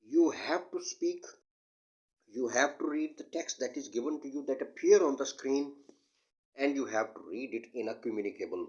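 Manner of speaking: slow, deliberate English explanation; slow teaching delivery. Acted. Teacher explaining read aloud slowly to students. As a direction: spell each phrase out for the class.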